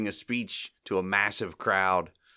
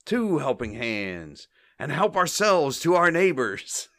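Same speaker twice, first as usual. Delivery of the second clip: intense mock speech; 5 semitones higher than usual. Mo speechifying to the crowd, intense mock oratory. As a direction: imitate an intense orator, rising at the end. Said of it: "He gets all intense".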